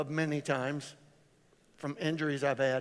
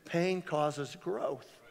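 slow emphatic; 7 dB quieter, much slower than usual. Shown as a demonstration. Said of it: "You should write that down".

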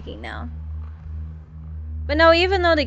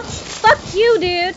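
angry outburst; 5 semitones higher, 4 dB louder, much slower than usual. Real, not acted. Tackled by enemy player.

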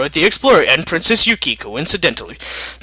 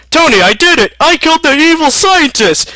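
much higher, louder joyful shout; triumphant cry; 11 semitones higher, 4 dB louder than usual. Acted. America telling Tony he won, excited shout. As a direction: cheer in victory.

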